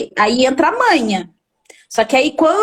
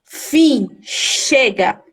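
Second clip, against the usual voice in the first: lower, steady, final voice shutting it down; firm, calm command; 4 semitones lower, much slower than usual. Shown as a demonstration. Therapist showing parents how to stop a tantrum, low and firm. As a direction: say each word like a closed door. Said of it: "Olha pra ele e fala assim".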